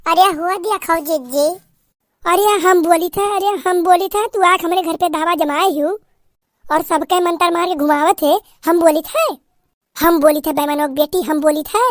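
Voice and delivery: put-on old aunt scolding in dialect; sharp-tongued aunt putting the bride in her place; threatening village aunt. Aunt insisting.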